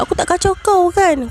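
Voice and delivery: high-pitched defensive appeal; pleading, pitched well up; retold pleading protest. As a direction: act out bargaining with a tormentor. Retold bargaining with the unseen tormentor.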